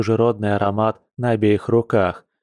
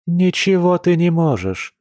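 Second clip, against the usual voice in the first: firm, higher-pitched cut-in; interrupting; 7 semitones higher than usual. A narrator's reading. Woman interrupts the man before he gets ideas, firmly. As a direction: jump in and overrule him. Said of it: "перебила его она".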